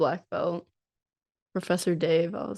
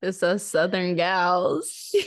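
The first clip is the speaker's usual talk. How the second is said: southern twang; 4 dB louder, much slower than usual. Acted. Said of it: "I'll add a little southern twang".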